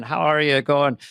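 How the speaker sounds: lightly imitated Irish accent. An Irishman greeting an American, lightly put-on Irish accent. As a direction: greet with a hint of an Irish lilt. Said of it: "if you meet an Irishman".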